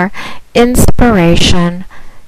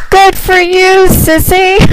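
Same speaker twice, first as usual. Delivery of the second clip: excited praise; 12 semitones higher than usual. Real, not acted. Praising caller, high and excited.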